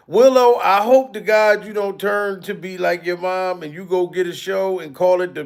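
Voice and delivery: ordinary talk, nothing marked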